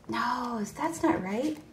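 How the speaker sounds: muttered to herself. Real, not acted.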